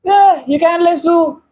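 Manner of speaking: high, slow, mock-outraged call; mock protest. Real, not acted. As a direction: protest at the plate. Complaining about his food. (नाटकी तक्रार)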